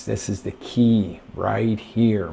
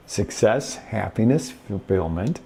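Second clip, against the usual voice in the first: upbeat. Shown as a demonstration. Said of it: "You see the difference?".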